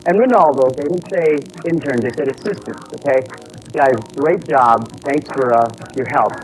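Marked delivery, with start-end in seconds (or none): none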